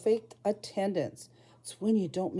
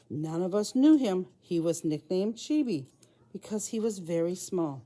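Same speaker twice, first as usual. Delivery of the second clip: storybook read-aloud to a class; reading to children. A narrator's reading. Teacher reads Crow Boy aloud to her class, storytelling voice. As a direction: read it out like a picture book to kids.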